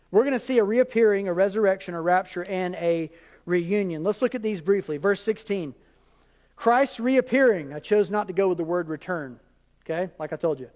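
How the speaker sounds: normal talking voice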